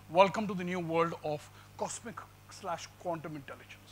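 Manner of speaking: a hushed, mysterious whisper; dramatic whisper. Acted. Lecturer hushes the room to unveil an idea: dramatic whisper. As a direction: breathe it like a secret revelation.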